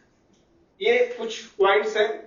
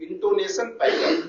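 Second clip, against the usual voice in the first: "intonation pattern" drawn out very slowly with a rise on "pattern"; slow dictation; much slower than usual. Shown as a demonstration. Teacher dictating the term to the class, very slowly. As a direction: stretch each word so students can copy it. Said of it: "I N T O N".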